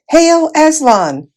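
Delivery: high, slow shrill little mouse hailing; a tiny brave mouse calling out in greeting. A narrator's reading. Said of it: "came his shrill voice".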